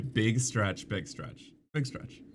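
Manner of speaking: soft pet talk. Real, not acted. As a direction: murmur it to a stretching puppy, dropping away. Talking to puppy as it stretches.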